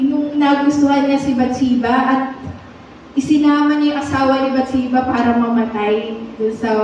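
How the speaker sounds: ordinary talk, nothing marked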